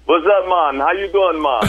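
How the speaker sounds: put-on light Caribbean accent greeting; a hint of a Caribbean accent. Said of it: "my Caribbean accent".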